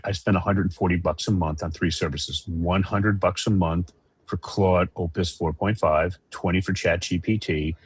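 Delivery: choppy, breaking-up audio; bad connection. Real, not acted. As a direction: voice cutting in and out over the call. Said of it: "sorry, you're breaking up again".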